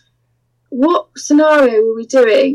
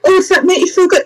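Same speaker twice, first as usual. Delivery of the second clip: mock-seductive mistress; 6 semitones higher, faster than usual. Acts out teasing the blindfolded client.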